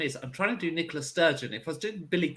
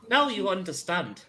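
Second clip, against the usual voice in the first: put-on accent slipping into Irish. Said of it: "That's Irish".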